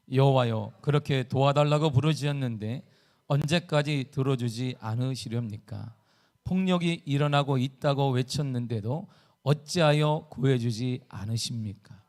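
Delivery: measured, slow reading aloud; scripture reading. Shown as a demonstration. Preacher leads the congregation in Habakkuk's verse, measured reading. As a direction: read the verse out evenly and deliberately. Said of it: "쉬운 성경으로 읽어보겠습니다".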